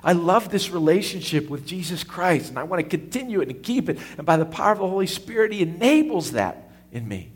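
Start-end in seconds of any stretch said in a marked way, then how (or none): 0.0-4.0 higher, eager voicing of a believer's hope; hopeful inner voice. Preacher voicing a believer's hope, eager. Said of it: "your great hope is".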